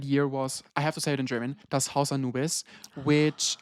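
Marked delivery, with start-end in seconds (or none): 1.7-2.6 Dutch accent. Shown as a demonstration. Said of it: "Very bad Dutch accent".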